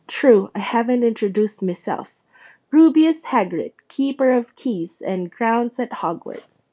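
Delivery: proud giant. Acted. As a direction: announce yourself grandly, rough and warm. Hagrid introduces himself.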